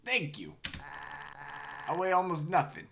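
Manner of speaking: high, eager little voice; small creature voice. Acted. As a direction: pipe it up small and hopeful. Voices a small pleading character.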